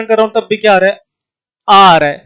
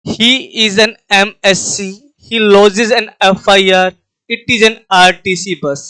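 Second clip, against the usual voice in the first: slow example reading; much slower than usual. Shown as a demonstration. Teacher reads example sentences to the class, very slowly. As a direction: read each English example very slowly, letter by letter. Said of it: "देखिए".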